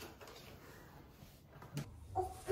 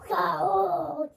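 put-on baby dinosaur roar; 6 dB louder, much slower than usual. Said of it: "난 아기 공룡".

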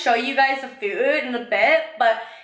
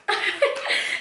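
awkward high laugh; 11 semitones higher, 3 dB quieter than usual. Retold or imitated. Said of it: "And I was like".

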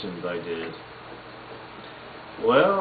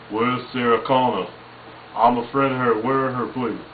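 Arnold. Retold or imitated. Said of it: "This is me as Arnold".

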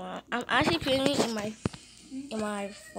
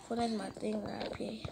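soft whispered aside; 2 semitones lower, 9 dB quieter than usual. Real, not acted. Streamer confiding his favourite game, whispered. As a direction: drop to a whisper.

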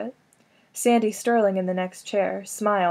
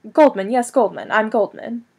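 louder, words run together; all in one word; 6 dB louder than usual. A narrator's reading. Flustered man introducing himself to Sandy, words run together. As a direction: blurt it as one long word. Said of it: "It came out, like, all in one word".

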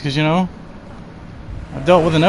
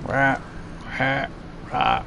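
soft half-hearted zombie rahs; lazy mock zombie groan; mock zombie growl; 4 semitones lower, 14 dB quieter than usual. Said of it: "Zombie noises".

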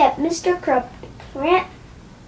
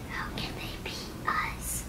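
unvoiced baffled whisper; 18 dB quieter than usual. A narrator's reading. Harold whispering to George, baffled. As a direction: hush the question, baffled. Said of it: "whispered Harold".

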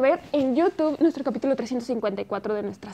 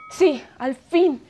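excited; 4 dB louder than usual. Acted. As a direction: savour the long-awaited moment. Awaited episode finally.

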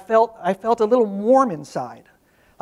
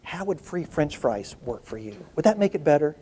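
put-on gentle offer to a child; 4 semitones lower, 6 dB quieter than usual. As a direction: tempt her kindly, like sharing a secret. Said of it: "and she goes".

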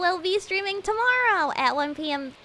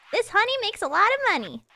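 excited; 6 semitones higher than usual. Shown as a demonstration. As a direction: announce it with delight.

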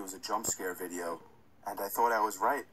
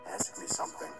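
eerie whispered demonic voice; possessed. Acted. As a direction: hiss it like a demon through static. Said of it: "a crackly, demonic voice say something".

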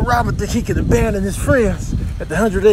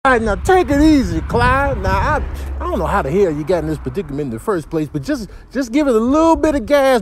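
higher, louder anxious guide; louder, higher panicked bystander; excited coaching; 4 semitones higher, 5 dB louder than usual. Acted. Coaching driver then shocked at crash.

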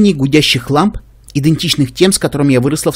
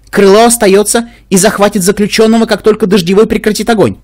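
calm dignity, measured pace; restrained and dignified; 7 semitones higher, 4 dB louder than usual. Acted. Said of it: "сдержанно и с достоинством". (сдержанно и с достоинством)

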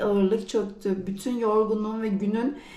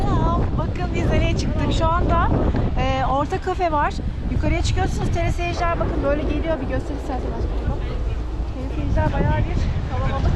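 louder, excited vlog greeting; 4 semitones higher, 3 dB louder than usual. Real, not acted. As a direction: call out excitedly from the summit.

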